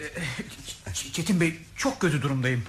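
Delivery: weak, stammering, barely standing; about to collapse. Acted. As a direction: falter like you might collapse. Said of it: "Neredeyse yıkılacaksınız. Ayakta duramıyorsunuz".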